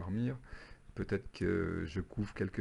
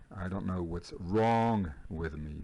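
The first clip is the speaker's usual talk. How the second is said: slow repeat; slower than usual. Shown as a demonstration. Répète lentement pour les élèves.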